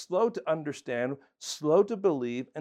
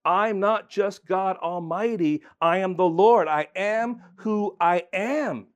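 voicing God; 3 semitones higher, 4 dB louder than usual. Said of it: "God is saying".

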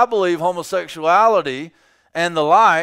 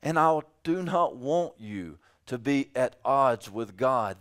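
softer, slower and gentle; loving rebuke; 4 semitones lower, 6 dB quieter than usual. Retold or imitated. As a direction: say it tenderly out of care. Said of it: "It is love that causes me to say".

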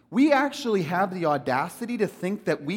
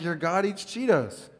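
laughing disbelief. Retold or imitated. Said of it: "I was like".

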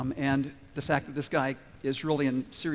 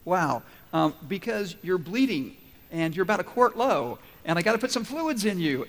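louder, patient explanation; patient explaining; 2 semitones higher, 4 dB louder than usual. Retold or imitated. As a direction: medic explaining with mock patience. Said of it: "And I'm going".

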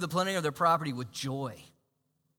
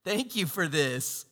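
grateful prayer; 3 semitones lower than usual. Retold or imitated. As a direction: thank God sincerely. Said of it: "you're like".

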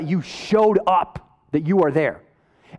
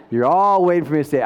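laughing; 5 semitones lower, faster than usual. Shown as a demonstration.

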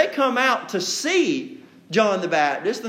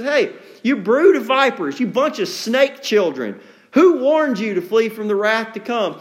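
sarcastic rebuke; 2 semitones higher, 3 dB louder than usual. Acted. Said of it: "sarcasm dripping off that".

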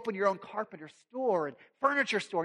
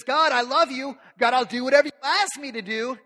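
loud, higher, fervent; fervent pledge; 6 semitones higher, 9 dB louder than usual. Acted. Mary pledging herself to God, loud and fervent. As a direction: pledge yourself wholeheartedly.

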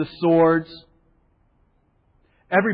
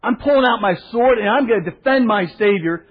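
higher, louder, fired-up; fired-up Peter; 6 semitones higher, 4 dB louder than usual. Retold or imitated. Peter drawing his sword for Jesus, higher and louder with zeal. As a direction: charge ahead with zeal. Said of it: "Peter is just going".

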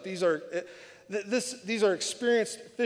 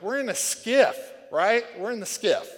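louder, higher mock protest; lightly acted incredulous alarm; retold alarm; 6 semitones higher, 8 dB louder than usual. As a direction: protest as if the boat won't hold. Retells his alarm in the waves.

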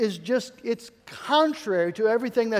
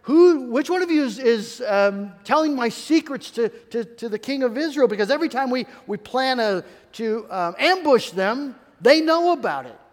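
angry king demanding; 4 semitones higher, 4 dB louder than usual. Retold or imitated. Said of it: "this guy's like".

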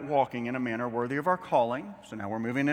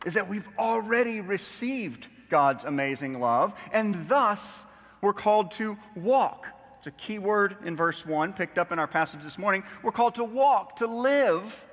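raised preacher voice with weighty key words; emphatic preaching; 6 semitones higher, 4 dB louder than usual. Acted. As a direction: drive the point home from the pulpit. Preacher driving the point home.

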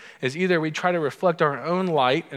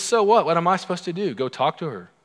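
higher, louder mock indignation; indignant protest; 4 semitones higher, 3 dB louder than usual. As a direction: push back as an exasperated George. Acted George protesting to Elaine.

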